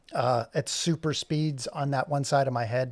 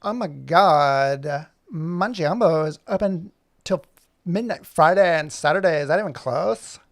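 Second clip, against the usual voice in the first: put-on a light Valley Girl lilt, slowed at the start; lightly Valley Girl, unsure of the name; slight Valley Girl accent; 2 semitones higher, 4 dB louder, slower than usual. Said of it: "with a slight Valley Girl accent".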